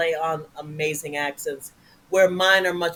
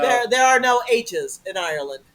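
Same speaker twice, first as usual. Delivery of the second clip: raised Irish accent; 5 semitones higher than usual. Shown as a demonstration. Co-host explains Irish speech, Irish accent. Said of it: "as the folks in Ireland would say".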